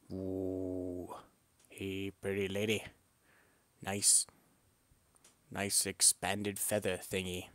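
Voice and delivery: lightly voiced flirty lady bird; a hint of a smitten hen; female bird voice. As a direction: coo it like an impressed female. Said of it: "the female says to the male".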